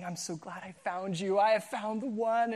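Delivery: soft mock-tender murmur; a hint of a smitten newlywed. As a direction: murmur it like snuggling close. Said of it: "you're thinking".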